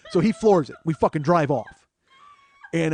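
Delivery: ordinary talk, nothing marked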